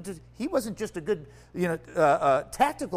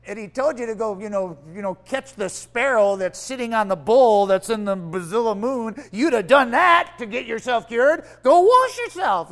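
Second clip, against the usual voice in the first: pleading servants; 7 dB louder than usual. Retold or imitated. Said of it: "his servants come and go".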